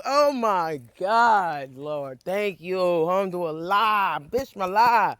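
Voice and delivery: hushed prayer. Real, not acted. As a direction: breathe out the thanks almost silently. Whispered thanks to God.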